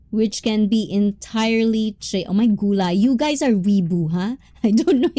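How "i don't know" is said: giggly admission of cluelessness; laughing confusion. Real, not acted. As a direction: say it while breaking into laughter. Laughing at unknown slang.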